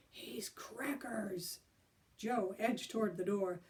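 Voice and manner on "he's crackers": slow breathy whisper; scared hushed whisper. Acted. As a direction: hiss it under your breath. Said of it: "Alan whispered".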